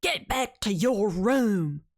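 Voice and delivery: drawn-out warning in an altered voice. Retold or imitated. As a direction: stretch the order slowly. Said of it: "This man is horned up".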